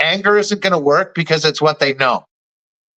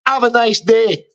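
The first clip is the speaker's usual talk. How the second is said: sing-song Scottish cook, rising higher; Scottish accent; 3 semitones higher than usual. Acted. Improvising a shortbread recipe for a friend, hammed-up Scottish accent. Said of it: "so good at doing Scottish".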